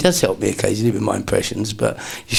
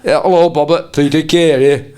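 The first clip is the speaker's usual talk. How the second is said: higher and louder, slow, put-on northern comic voice; Peter Kay impression; 6 semitones higher, 6 dB louder than usual. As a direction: imitate a celebrity caller cheerfully introducing himself. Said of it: "He went".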